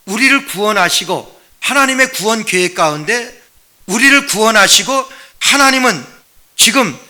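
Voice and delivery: ordinary talk, nothing marked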